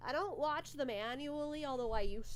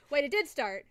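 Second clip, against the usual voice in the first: loud sudden realization; surprised exclamation; 3 semitones higher, 10 dB louder than usual. Real, not acted. Streamer suddenly noticing the movie has started, surprised and loud. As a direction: blurt it out, caught off guard.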